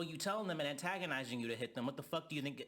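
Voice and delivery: normal talking voice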